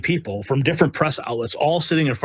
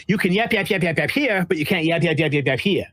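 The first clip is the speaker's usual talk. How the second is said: mocking yapping. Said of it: "she's literally yapping".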